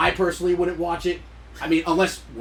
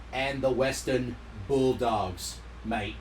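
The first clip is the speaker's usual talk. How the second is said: put-on light Australian accent with "mate"; 2 semitones lower, 4 dB quieter than usual. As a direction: finish like an Aussie. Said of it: "that's my Aussie accent".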